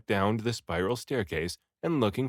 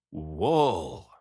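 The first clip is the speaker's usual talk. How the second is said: eureka, slowing and rising high; excited shout of discovery; 4 semitones higher, much slower than usual. A narrator's reading. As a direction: blurt out the realization. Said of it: "I shouted to them".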